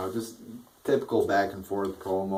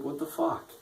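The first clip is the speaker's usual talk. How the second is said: exasperated; 7 semitones higher, 6 dB quieter than usual. Real, not acted. Exasperated at the jobber win.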